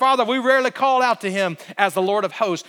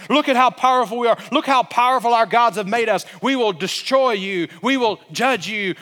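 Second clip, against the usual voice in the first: boastful cursing giant; 3 dB louder than usual. Retold or imitated. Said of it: "Goliath is saying".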